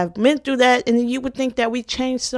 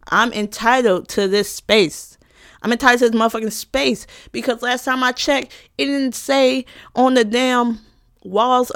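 angry; 4 semitones higher, 4 dB louder than usual. Real, not acted. Angry rant about racism.

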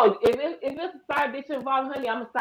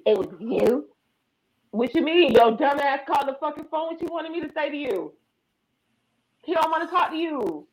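mild mock confrontation; 4 semitones higher than usual. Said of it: "they be like".

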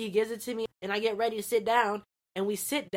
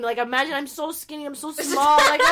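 laughing; 5 semitones higher, 5 dB louder than usual. Real, not acted. Laughing about feeling tiny.

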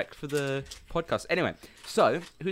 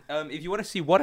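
voice crack; 4 semitones higher than usual. Real, not acted. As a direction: voice cracking mid-sentence. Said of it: "voice crack".

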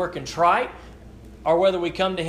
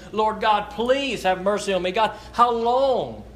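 pleading; 4 semitones higher than usual. Retold or imitated. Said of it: "he was begging and he was pleading".

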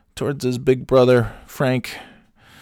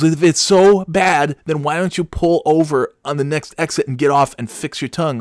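higher, mildly exasperated retort; lightly voiced exasperated wife; 7 semitones higher, 5 dB louder than usual. Wife tells husband to pull over, mock exasperation. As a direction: imitate a wife fed up with the complaining. Acting out exasperated wife's reply.

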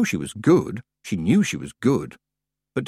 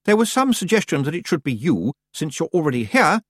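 higher-pitched, poised witch voice; smooth Miss Tick, placating; 6 semitones higher than usual. A narrator's reading. Miss Tick explaining the decision to Tiffany, smooth.

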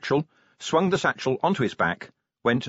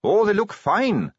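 put-on higher eager young Carrot voice; earnest young captain, pitched up and louder; 10 semitones higher, 4 dB louder than usual.

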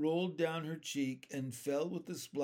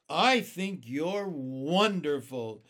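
slow, emphatic admiration; admiring; 8 dB louder, slower than usual. A narrator's reading. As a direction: gush slowly and loudly as an admiring child. James admiring the ladybug.

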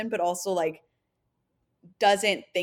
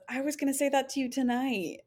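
mock angry; 6 semitones higher than usual. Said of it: "like, fake angry at her".

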